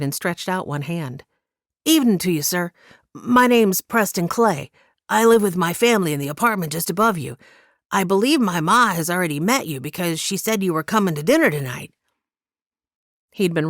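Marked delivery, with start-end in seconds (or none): 1.8-11.9 lightly voiced boy, politely introducing himself; a hint of a well-trained boy greeting a big man; polite boy Preston.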